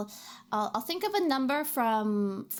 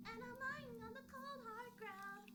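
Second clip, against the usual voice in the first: mock dramatic whisper; 10 semitones higher, 21 dB quieter than usual. Dramatic game line, very quiet.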